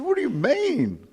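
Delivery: high, slow, offended question; indignant animal lover. Retold or imitated. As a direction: recoil like she's been insulted.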